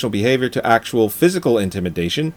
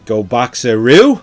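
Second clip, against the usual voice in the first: put-on Australian accent; 6 dB louder, slower than usual. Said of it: "a shitty Australian accent".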